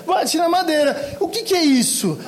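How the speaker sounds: bate na madeira dito mais agudo e rindo; imitando rindo. Retold or imitated. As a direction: repete bate na madeira devagar, entre risos. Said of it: "a gente vem imitando todo mundo". (bate na madeira imitado com riso)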